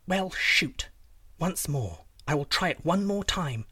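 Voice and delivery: lightly voiced princess, mildly vexed; resolute princess.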